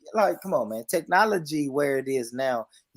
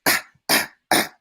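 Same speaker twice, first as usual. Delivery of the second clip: imitating song ad-libs; 4 dB louder than usual. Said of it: "this little nigga saying".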